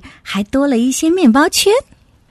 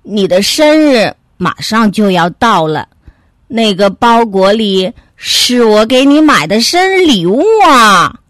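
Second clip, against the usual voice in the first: mildly angry, building louder to the end; upset reproach; 4 dB louder than usual. Acted. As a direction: reproach the dog, swelling on the last words. Angry bear reveals birthday gift.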